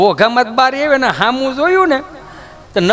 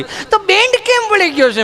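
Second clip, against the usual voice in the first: much higher, breathless mock panic; frantic mother; 10 semitones higher than usual. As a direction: wail like a fussy city mom. (બાળક માટે ગભરાયેલી માતાની ઊંચી બૂમ)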